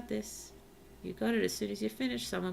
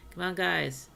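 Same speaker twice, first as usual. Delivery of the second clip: "Come on, guys" pushed out louder, falling at the end; loud urging; 6 dB louder than usual. Real, not acted. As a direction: urge the villagers on firmly. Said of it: "Am I being encouraging".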